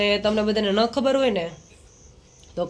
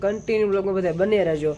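fast, tossed-off run through the usual sign-off; rattled-off catchphrase; faster than usual. Shown as a demonstration. Vlogger quoting his own worn-out outro to viewers, fast and tossed-off. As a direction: rush through the familiar "continue બ્લોગમાં બધાય બન્યા રહેજો". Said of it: "ઘણી વાર હું એમ કહેતો હોય ને".

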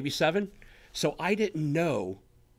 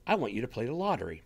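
quick tempting voice; 4 semitones lower, 3 dB quieter, faster than usual. Retold or imitated. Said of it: "if you hear things like".

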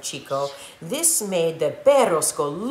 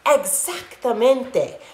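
howled; 5 semitones higher, 3 dB louder, slower than usual. Acted. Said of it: "howled the doggies".

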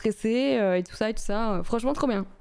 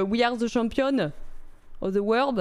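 put-on English quoted with a French accent. Recalling an ad slogan in French-accented English. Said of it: "avec mon bel accent anglais".

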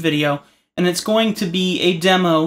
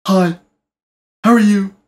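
louder, cheerful eager greeting; happy dog; 3 semitones higher, 8 dB louder than usual. Pretend. Voicing a friendly dog greeting its owner, eager and loud. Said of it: "a dog comes in and is like".

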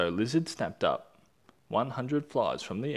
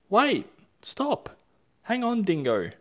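urgent shouting; 12 semitones higher, 6 dB louder than usual. Acted. Animals urgently stopping Dingo.

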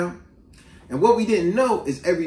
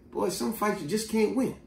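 Uncle Billy; 8 dB quieter than usual. Retold or imitated. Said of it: "lessons my Uncle Billy told me".

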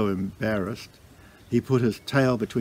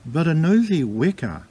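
ordinary delivery, nothing marked

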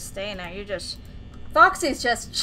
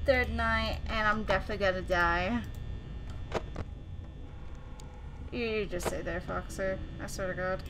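low, soft and jittery, scared to speak up; tense hushed murmur alone in the dark; nervous hushed voice; 6 semitones lower, 12 dB quieter than usual. Real, not acted. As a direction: hold your breath and murmur through the fear. Scared alone at night in game.

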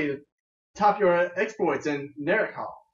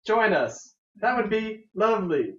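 monotone; 4 semitones higher, slower than usual. Acted. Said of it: "in a painfully monotone voice".

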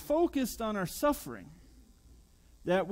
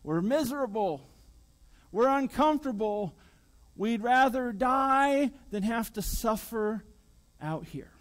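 whiny complaining; 4 dB louder than usual. Pretend. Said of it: "and they complain".

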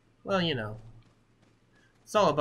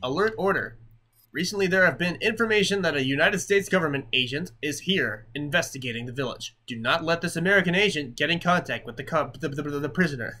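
lightly voiced village chief; 3 semitones higher, 5 dB louder than usual. Chief warning villagers about the American agent, lightly commanding. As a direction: read the alert like a commanding chief. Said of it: "such an American accent".

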